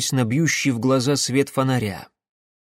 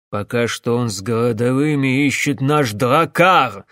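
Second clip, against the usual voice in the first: barked; 4 dB louder than usual. Acted. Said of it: "рявкнул Карпас".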